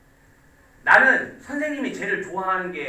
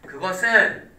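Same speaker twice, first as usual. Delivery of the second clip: acted denial; 5 semitones lower than usual. Shown as a demonstration. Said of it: "이렇게".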